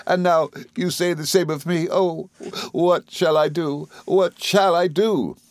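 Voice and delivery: high, drawn-out tearful wail; Dora, sobbing. A narrator's reading. Wife in despair at husband's words, high slow sobbing. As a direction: cry helplessly, high and stretching the words. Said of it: "sobbed Dora".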